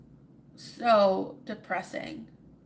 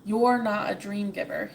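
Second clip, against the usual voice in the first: shouted at the sky; 4 dB louder than usual. Acted. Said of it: "he shouted at the sky".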